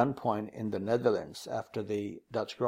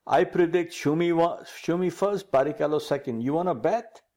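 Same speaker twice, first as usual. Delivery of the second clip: imitating an excited Flavio, a bit higher and louder; excited prediction; 5 semitones higher, 3 dB louder than usual. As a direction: retell Flavio's bet with mock excitement. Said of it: "very excitedly".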